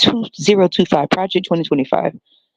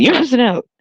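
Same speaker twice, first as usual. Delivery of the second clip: mock voice crack, pitch breaking upward; 9 semitones higher than usual. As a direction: voice cracks up high on the words. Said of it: "Then they voice be cracking".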